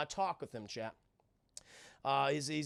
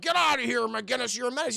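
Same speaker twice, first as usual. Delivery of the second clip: angry coach; 6 semitones higher, 4 dB louder than usual. Retold or imitated. Gym coach breaking up a fight.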